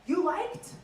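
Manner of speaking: put-on foreign-accented creepy invitation; the Collector. Scare actor greeting visitors coming out, in heavy accent. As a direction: invite them to stay in a thick accent. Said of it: "and they say".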